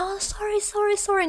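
high, sing-song sorry sorry sorry; high mocking imitation of a flippant guy; mock apology.

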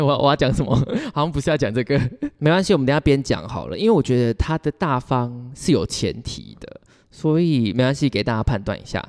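ordinary delivery

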